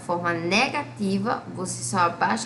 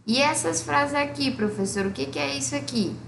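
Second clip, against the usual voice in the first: higher, curious student voice; student's question; 6 semitones higher than usual. Acted. Teacher voices a student asking about the sentences. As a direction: play the puzzled pupil asking.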